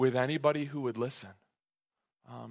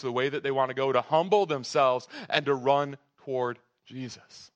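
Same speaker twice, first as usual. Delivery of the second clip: impassioned preaching; 3 semitones higher, 5 dB louder than usual. Acted. Preaching the gospel at force.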